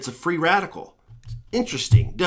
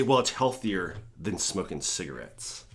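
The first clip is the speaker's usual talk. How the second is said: mocking vapers; 9 semitones lower, 10 dB quieter than usual. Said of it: "I love the vapors that say".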